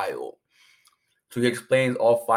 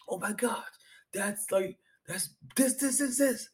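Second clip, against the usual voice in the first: awed whisper; 12 semitones higher, 4 dB quieter than usual. Retold or imitated. Spectators gasp at the boxer.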